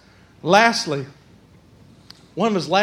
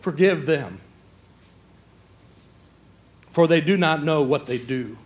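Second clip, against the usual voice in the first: hushed Jesus; 8 semitones lower, 7 dB quieter than usual. Acted. Jesus's words quoted in a hushed voice.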